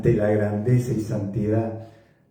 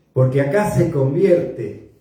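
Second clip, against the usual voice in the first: emphatic; 4 dB louder than usual. Shown as a demonstration.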